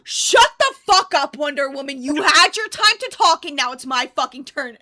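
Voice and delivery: mock angry rant. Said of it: "and you go".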